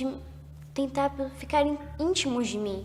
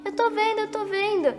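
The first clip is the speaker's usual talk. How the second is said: higher, mock-excited repeat; lightly imitated amazed cry; excited exclamation; 7 semitones higher than usual. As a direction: imitate the man thrilled at the sight. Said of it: "Tio, você tá vendo a porta com um homem?".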